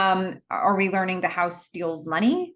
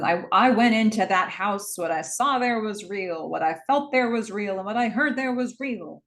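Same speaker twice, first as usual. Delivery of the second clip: impassioned speech. Retold or imitated. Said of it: "put all his energy and gusto into it".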